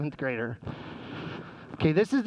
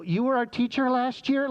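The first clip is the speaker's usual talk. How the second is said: mock-incredulous kids, pitched higher; incredulous pupils; 6 semitones higher than usual. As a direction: ask in higher-pitched disbelief, imitating kids. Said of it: "And these kids go".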